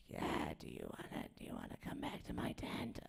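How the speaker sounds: whispered pickup line with no voice; lost-voice whisper. Retold or imitated. Comic acting a voiceless pickup at a festival, whisper. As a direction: breathe the come-on with no voice at all. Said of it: "I can't be like".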